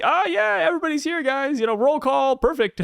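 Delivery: high, sing-out voice of forced ease; falsely cheery Marine. Acted. Marine at roll call hiding that Dragon is missing, high forced cheer. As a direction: cover for trouble in a high, breezy voice.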